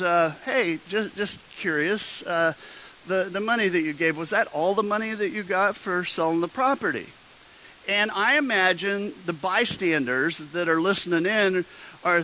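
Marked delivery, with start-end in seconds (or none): 0.4-7.1 casual, slightly hesitant ask. Acted. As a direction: toss it out as idle curiosity. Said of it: "very casually goes".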